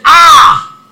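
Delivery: loud, high exclamation of dismay; Yoruba shout. Acted. Jeremiah protesting to God, Yoruba shout. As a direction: cry out in protest, Yoruba style. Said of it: "the Yoruba will shout".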